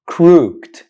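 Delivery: crooked said as one syllable, "krookt"; mispronounced crooked. Shown as a demonstration. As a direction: run "crooked" together, no vowel before the D. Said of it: "mistakenly and incorrectly".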